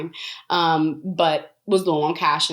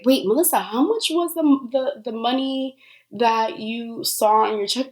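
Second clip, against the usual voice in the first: lightly voiced mom, higher and surprised; a hint of a startled mother asking; 5 semitones higher than usual. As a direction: mom suddenly catching on, higher pitched. Mom suddenly realizing the money.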